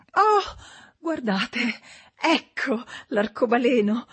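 high, bright twittering housewife; chirpy Mrs Givens. A narrator's reading. Mother breaks the tension by pointing at a rainbow, high and chirpy. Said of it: "cinguettante della voce della signora Givens".

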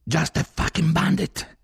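slow, high, loud yell; full-voiced shouted reply; shouting into an ear. A narrator's reading. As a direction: yell it slowly into someone's ear. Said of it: "gli gridai dentro".

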